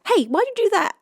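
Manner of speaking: squeaky high little voice, pleading and shivering; high, small voice of a freezing snail asking to come in; tiny snail voice. Acted. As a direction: play a tiny cold snail begging at the door. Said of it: "a little voice just goes".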